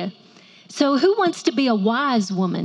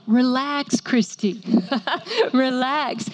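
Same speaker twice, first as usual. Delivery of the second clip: husband's gentle relax; slower than usual. Retold or imitated. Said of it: "I hear that a lot from Mylan".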